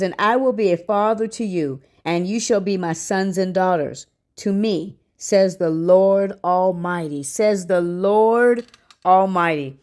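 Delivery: measured Bible verse, stretching out the closing words; scripture reading. Real, not acted. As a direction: read it solemnly, drawing out the ending. Reads a second Bible verse.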